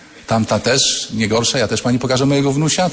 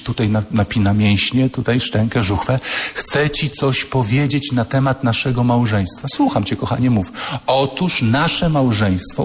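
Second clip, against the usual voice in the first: pompous husband. Retold or imitated. Husband's solemn announcement.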